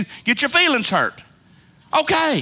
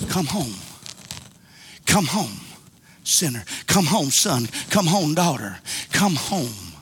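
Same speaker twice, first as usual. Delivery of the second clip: low, soft pleading come home; soft altar call; 10 semitones lower, 5 dB quieter than usual. Real, not acted. Preacher gently calls sinners home at the altar, low and soft. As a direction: draw the sinner in gently, almost hushed.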